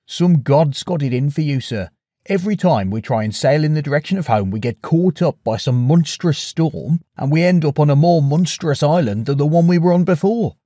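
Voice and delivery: loud, blunt sailor; a gruff first mate speaking up. Acted. Eurylochus voiced in story.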